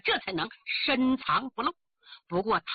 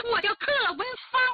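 high, quick villainous announcement; triumphant reveal; 9 semitones higher, much faster than usual. Acted. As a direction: declare the true identity with relish. Villain triumphantly reveals her name. (得意地高声亮明身份)

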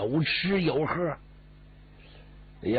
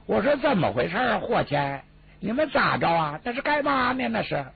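a lightly voiced thin, unpleasant youth's voice, higher and fast; thin little voice; 6 semitones higher than usual. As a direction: squeak it out a bit higher and quicker, grating on the ear. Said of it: "紧跟着有个小细声".

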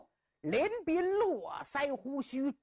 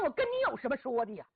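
quick, dismissive mutter stressing 跟; scornful inner thought; 2 semitones higher, much faster than usual. Acted. Captive scholar silently scorns the bandit, quick dismissive fall. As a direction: brush him off fast, 跟 stressed then falling. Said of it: "心想".

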